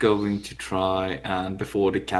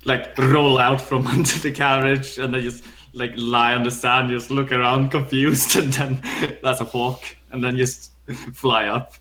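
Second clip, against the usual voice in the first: laughing; 4 semitones higher, 4 dB louder than usual. Real, not acted.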